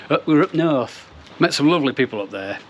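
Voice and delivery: jokey fake northern accent; bad northern English accent. Shown as a demonstration. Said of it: "That was really bad accent".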